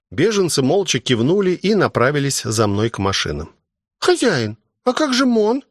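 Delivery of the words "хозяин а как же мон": anxious question, pitched much higher; a young helper fretting over a friend; worried. A narrator's reading. Ruby asks the master about Mon, worried and much higher. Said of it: "обеспокоенно спросил Руби".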